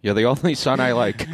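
lightly put-on patriarch voice; a touch of old transatlantic accent; Logan Roy. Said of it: "That's what he would sound like".

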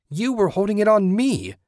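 high, loud screaming accusation. A narrator's reading. Cornered woman screaming at her attacker, high and loud. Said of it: "Susan screamed".

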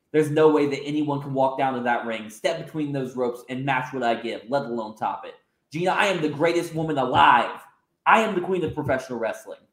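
slight haughty sneer in a near-normal voice; lightly voiced arrogant heel. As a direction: boast down at him, only lightly put on. Heel champion boasting.

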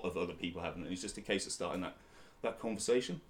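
dry-mouthed, sticky speech; talking with a parched mouth. Real, not acted. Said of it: "I've got a bit of a dry mouth".

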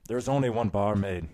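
slow Irish toast building to a shout; rousing, drawn-out Irish call; Irish cheer. Retold or imitated. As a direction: start measured, then holler it high like an Irish pub cheer. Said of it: "like, the Irish cheers".

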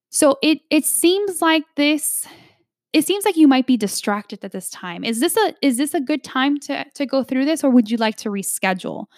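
gentle, concerned check-in, opening high then easing down; a sincere, non-judgmental question about whether now is a good time; reassuring and curious, not condescending; understanding, curious tone. Shown as a demonstration. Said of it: "And I say it in that tone, in that voice".

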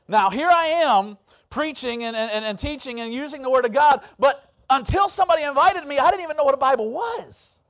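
impassioned, forceful declaration; emphatic preaching. Real, not acted. Preacher drives the testimony home.

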